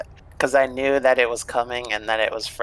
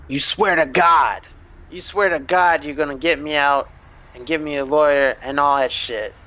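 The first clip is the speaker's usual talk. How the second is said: pleading criminal; 4 semitones higher, 3 dB louder than usual. Acted. Marvin pleading with the party.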